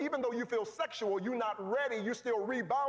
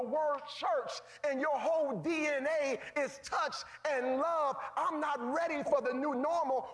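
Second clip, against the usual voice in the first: raised, higher preaching cry; preaching shout; 3 semitones higher than usual. Real, not acted. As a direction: lift it up and preach it out. Preacher builds to confession.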